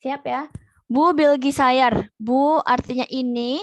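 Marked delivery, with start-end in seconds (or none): 0.8-2.1 "Bu Bilgi Sayar" said slowly and loudly, word by word; teacher dictating a new word; slow, loud dictation. Shown as a demonstration. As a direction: announce it loud and slow for note-taking. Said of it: "tolong disimak dan dicatat ya".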